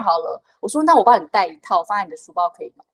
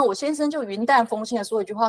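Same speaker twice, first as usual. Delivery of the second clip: 云淡风轻; 4 dB quieter than usual. Retold or imitated.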